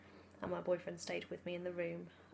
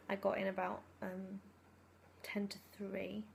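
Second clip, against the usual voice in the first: sore throat. Real, not acted. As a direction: talk gently over a raw throat. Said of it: "I've got a bit of a sore throat".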